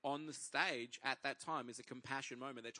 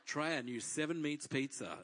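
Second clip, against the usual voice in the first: re-enacted promo voice; ad read. Trying out for pizza voiceover work, mock ad read. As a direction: sell it like a pizza commercial. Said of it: "I start reading this thing".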